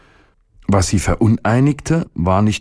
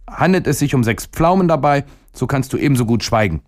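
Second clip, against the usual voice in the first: put-on higher, stubborn little-boy voice; a small boy vowing revenge; defiant boy; 7 semitones higher than usual. A narrator's reading. Boy refuses stomach. (trotziger Junge, höhere Stimme)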